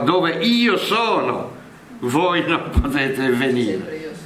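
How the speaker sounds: io leaned on, slow and weighty; a teacher slowing to land the word "io"; stress on io. Shown as a demonstration. Explaining Jesus's wordplay, stressing io slowly. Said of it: "È sempre questo "io sono".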